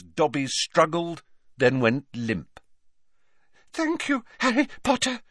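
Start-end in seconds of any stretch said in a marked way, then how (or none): 3.7-5.2 high, breathless elf squeak; panting squeaky elf. A narrator's reading. Elf gone limp after struggling, panting in a high squeak. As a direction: pant it out in a tiny voice. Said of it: "he panted".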